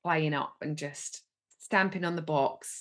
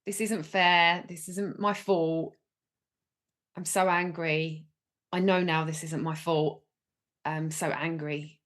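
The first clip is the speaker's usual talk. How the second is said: voicing angry child; 4 dB louder than usual. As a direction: speak for the stamping angry little girl. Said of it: "talk as if you're her".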